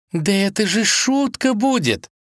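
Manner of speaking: lively princess; exclaiming. Acted. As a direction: convince her it's a joke. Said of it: "воскликнула царевна".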